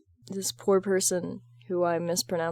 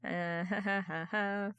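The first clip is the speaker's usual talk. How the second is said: real laugh; 7 dB quieter than usual. Real, not acted.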